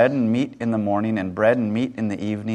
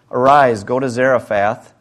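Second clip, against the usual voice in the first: loud divine command; commanding call; 6 dB louder than usual. Acted. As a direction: call it out like an order. God's command read aloud.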